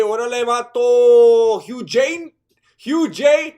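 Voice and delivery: playful shout. Real, not acted. Taunting a chatter playfully.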